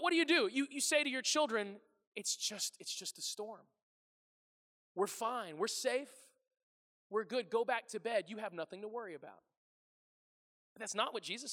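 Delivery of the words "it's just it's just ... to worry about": calm, understated comforting tone; reassuring parent. Acted. Parent to children woken by a storm, mildly reassuring. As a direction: settle them back down gently.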